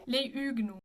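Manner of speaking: "Les Huguenots" as lay üg-NO, no schwa; correct French, linked. Shown as a demonstration. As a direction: model "Les Huguenots" smoothly, silent H and endings. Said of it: "they go into each other".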